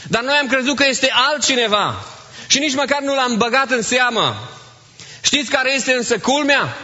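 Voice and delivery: fervent preaching. Acted. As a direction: press the congregation with rising fervour. Preacher builds to fervent appeal. (predică înflăcărată, cu glas ridicat)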